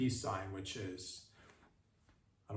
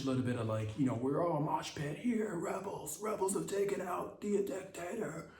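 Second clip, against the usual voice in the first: excited daydream. Retold or imitated. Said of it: "Get excited 'cause rebels".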